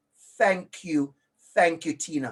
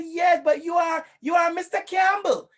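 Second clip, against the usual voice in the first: higher, insistent mock pupil voice; pupils insisting; 8 semitones higher, 4 dB louder than usual. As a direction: imitate children exclaiming to their teacher. Voices children answering the teacher.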